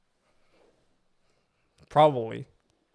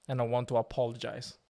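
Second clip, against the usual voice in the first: mock apology video; 4 dB quieter than usual. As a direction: parody a solemn celebrity apology video. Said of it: "You know those, like, sigh".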